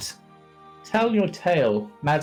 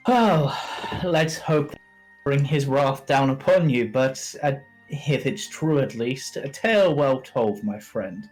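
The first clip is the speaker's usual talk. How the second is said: booming NPC voice; slower than usual. Acted. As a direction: boom it out like a proud bard.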